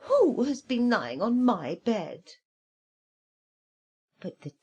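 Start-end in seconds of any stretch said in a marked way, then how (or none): 0.1-2.3 higher, louder mid bear; middling-sized voice. Acted. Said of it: "cried out in a middling-sized voice".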